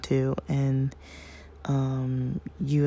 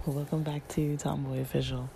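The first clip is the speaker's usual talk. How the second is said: rough, strained voice; voice cracking; 4 dB quieter than usual. Real, not acted. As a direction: voice catching on the words. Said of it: "my voice is, like, cracking".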